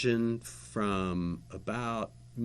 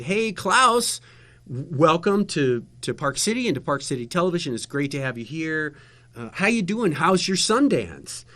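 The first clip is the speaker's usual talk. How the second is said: higher, louder on-air welcome; re-enacted host greeting; 4 semitones higher, 5 dB louder than usual. Host re-enacts welcoming the big-time German director, upbeat greeting. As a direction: greet the guest brightly, as if on camera.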